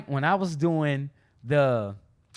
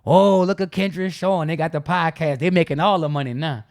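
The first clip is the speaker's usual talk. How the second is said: mocking sarcastic tease; a light sarcastic jab; 4 dB louder than usual. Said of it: "people might say something sarcastic like".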